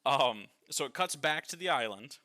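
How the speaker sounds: talking through laughter; laughing. Real, not acted. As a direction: still giggling as she speaks. Laughing while retelling the scene.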